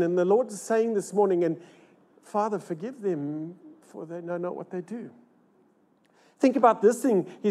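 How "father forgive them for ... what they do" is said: hushed, falling away to near silence; whispering Jesus's forgiveness to the church; soft quote. Acted. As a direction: let the prayer fade out. Jesus's words quoted softly.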